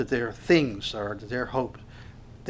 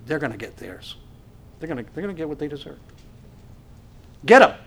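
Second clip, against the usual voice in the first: vengeful thought; faster than usual. Retold or imitated. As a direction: let the grudge build into a shout. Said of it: "that's our feeling".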